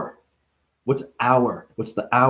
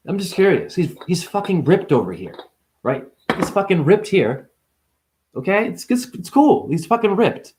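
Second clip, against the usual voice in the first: incredulous rant; 6 semitones higher than usual. Acted. Mock outraged questioning about Buddha.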